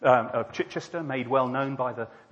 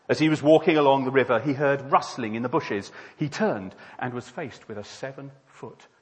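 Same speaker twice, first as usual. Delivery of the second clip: animated, louder storytelling; story narration; 2 semitones higher, 7 dB louder than usual. Acted. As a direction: launch into a tale with big emphasis. Tells a joke as a story.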